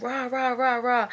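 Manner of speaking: half-voiced mock scolding gibberish; mock yelling noise. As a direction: imitate yelling as meaningless noise. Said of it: "yelling at your dog".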